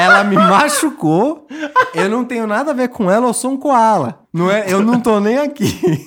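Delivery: panicked denial. Acted. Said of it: "prontamente falar".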